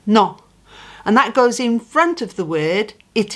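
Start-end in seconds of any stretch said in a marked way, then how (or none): 0.1-0.4 No said like not without the t; No, a short clean o with no t; No, plain Spanish o. Shown as a demonstration. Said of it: "It's like not, but without the t".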